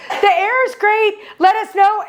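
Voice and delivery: mock-pleasant, drawn out; being all nice. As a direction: imitate someone being sweetly polite. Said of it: "Tisha was being all nice".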